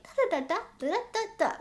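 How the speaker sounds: small puppy-voice sample, pitch climbing. Shown as a demonstration. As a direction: babble lightly like a playful little pup. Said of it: "That is my puppy voice".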